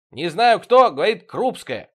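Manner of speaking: loud, high, slowing shout; calling out. A narrator's reading. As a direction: keep hollering across the flat. Витёк shouting on from another room.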